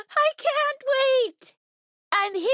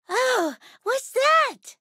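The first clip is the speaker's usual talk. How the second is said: high, slow surprised question; startled curiosity; 5 semitones higher, slower than usual. Acted. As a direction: ask it wide-eyed, pitched up. Startled by something unexpected.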